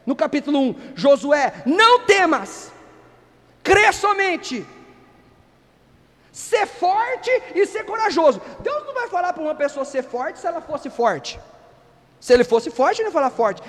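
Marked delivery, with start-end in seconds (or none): 0.9-8.4 slow, solemn, high and tender; God's encouragement. Retold or imitated. God calming a fearful Josué, slow and solemn. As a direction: lay each word down slowly like a reassuring God. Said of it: "Deus falou três vezes".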